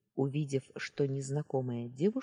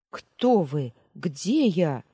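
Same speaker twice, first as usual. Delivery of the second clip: alarmed; 7 dB louder, much slower than usual. Acted. Waking confused in strange place.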